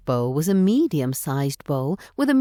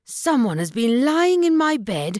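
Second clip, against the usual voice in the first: a hint of a gruff father bear; lightly voiced papa bear; Father Bear's heavy growl; 8 semitones higher than usual. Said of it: "he growled with his heavy voice".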